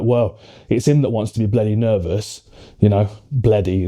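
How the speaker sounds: put-on lightly done Nottingham accent; a hint of an old Nottingham granddad; east midlands accent. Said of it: "like, proper Nottingham accent".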